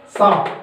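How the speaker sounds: a crisp hissing sa, said alone; teacher voicing the sa sound. Shown as a demonstration. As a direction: isolate the sound सा cleanly. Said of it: "इसमें सा use हो रहा".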